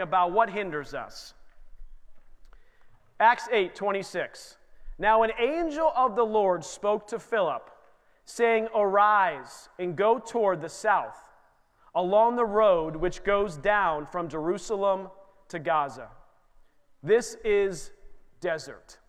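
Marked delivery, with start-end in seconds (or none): 5.0-16.1 scripture reading. Acted. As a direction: read the verse with solemn weight. Reads scripture aloud.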